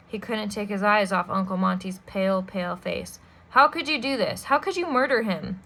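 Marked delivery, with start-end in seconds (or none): 3.5-5.6 angry accusation. Acted. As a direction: cry it out in disbelief. Boy accuses murderer.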